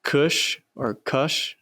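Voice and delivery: Cush with oo vowel then uh vowel; two pronunciations. Shown as a demonstration. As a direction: say Cush as cooosh, then Cush as cuhsh. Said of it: "how you guys wanna say it".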